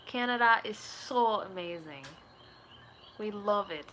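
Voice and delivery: attempted Canadian accent. Shown as a demonstration. Streamer trying a Canadian accent on viewers, unconvincing. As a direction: have a shaky go at a Canadian accent.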